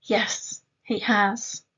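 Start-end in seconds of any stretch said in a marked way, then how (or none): 0.0-0.6 unvoiced yes; whispered yes. Shown as a demonstration.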